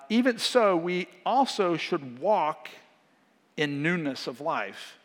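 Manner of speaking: slow, measured Bible reading; a gentle preacher's reading voice; scripture reading. Acted. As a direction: read the verses deliberately. Reads King James verse.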